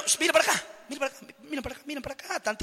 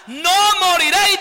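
Satanás diciendo; 4 semitones higher, 3 dB louder than usual. Acted. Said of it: "dijo Satanás".

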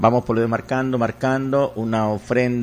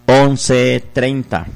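slow and deliberate; much slower than usual. Shown as a demonstration. Radio host dictates the donation number to listeners, slowly. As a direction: stretch out each number slowly.

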